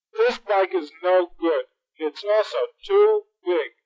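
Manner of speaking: mild hammed-up whimper; whiny crying kid. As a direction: complain tearfully like a small boy. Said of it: "Hieronymus was crying again".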